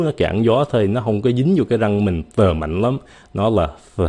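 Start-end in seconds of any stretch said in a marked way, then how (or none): 3.3-4.0 th said gently, tongue just touching; light th. Shown as a demonstration. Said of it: "nhẹ thôi".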